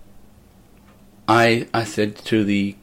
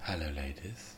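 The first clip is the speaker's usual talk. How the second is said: deadpan opener; 5 semitones lower, 15 dB quieter than usual. Shown as a demonstration. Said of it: "I just say".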